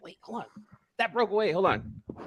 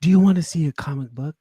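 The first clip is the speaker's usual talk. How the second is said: sultry voice; slower than usual. Shown as a demonstration. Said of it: "add a "do you like art".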